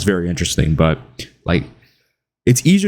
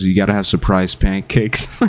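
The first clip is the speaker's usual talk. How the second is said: a lightly deadpan flat voice; monotone. Retold or imitated. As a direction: say it utterly flat. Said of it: "just talking like this".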